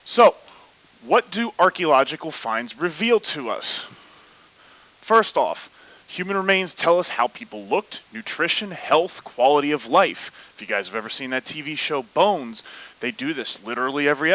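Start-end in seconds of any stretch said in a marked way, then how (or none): 0.0-10.5 football announcer voice. Pretend. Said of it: "football announcer voice".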